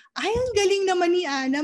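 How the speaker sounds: high, quick burst of praise; delighted praise. Acted. Parent catches Ana tidying her slippers, delighted praise. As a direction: praise a small child with a lifted, delighted voice.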